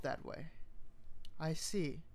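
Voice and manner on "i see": neutral. Acted. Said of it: "she said neutrally".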